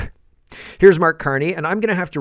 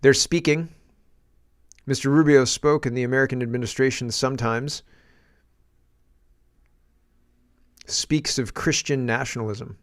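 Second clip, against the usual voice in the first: halting politician's statement with very long pauses; Mark Carney. Retold or imitated. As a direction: deliver it in slow, separated chunks, imitating a politician. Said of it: "Sorry, he's kinda slow".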